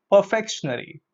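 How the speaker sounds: "Perfectionary" as per-FEK-shun-ary; mispronunciation. Shown as a demonstration. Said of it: "That's incorrect pronunciation".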